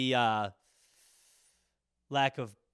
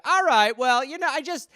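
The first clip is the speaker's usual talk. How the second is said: high, apologetic, timid voice; trying to appease an angry driver; meek politeness; 4 semitones higher than usual. Retold or imitated. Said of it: "You're like".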